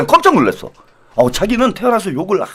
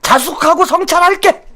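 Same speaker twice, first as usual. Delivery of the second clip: mock reflection; 8 semitones higher than usual. Mock grudging apology.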